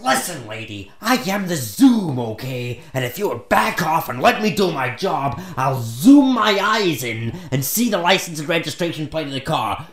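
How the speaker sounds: retold exasperated telling-off; indignant retort. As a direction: assert yourself loudly, getting worked up. Retold quarrel, boasting of his power.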